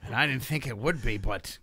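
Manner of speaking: put-on Australian accent. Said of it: "Australian accent, please".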